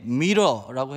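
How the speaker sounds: loud, confident 미러라고. Retold or imitated. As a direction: proudly announce it. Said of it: "아주 당당하게".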